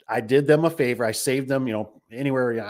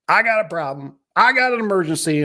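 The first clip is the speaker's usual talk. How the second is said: mock frantic caller; 9 semitones higher, 5 dB louder than usual. Mimicking pushy callers.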